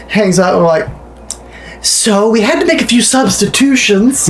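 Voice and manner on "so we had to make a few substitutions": higher, chipper mock store clerk; deadpan clerk joke. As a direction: chirp it like a cheerful cashier who missed the mood. Mock clerk line after sad story.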